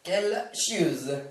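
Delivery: annoyed grumble. Acted. Anchor grumbles off-air.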